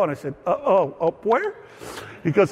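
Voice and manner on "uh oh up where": hesitant, rising to a higher-pitched question; mock-nervous query with halting start; retold nervous doubt. Afraid-of-heights pastor questions the old bar pilot, nervously hesitant.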